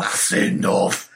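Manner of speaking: put-on Liverpool accent. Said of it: "Is that your Liverpool accent?".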